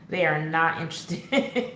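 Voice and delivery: said through a laugh; chuckling through the words. Real, not acted. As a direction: laugh it off as you say it. Laughing about family's disinterest.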